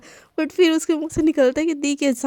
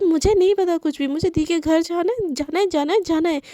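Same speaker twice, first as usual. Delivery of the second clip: put-on higher, repeating like a stubborn child; whiny insistence; 4 semitones higher than usual. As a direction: chant the demand like a tantrum.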